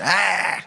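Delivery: high mock scream. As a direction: yelp like a hurt skater. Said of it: "she said".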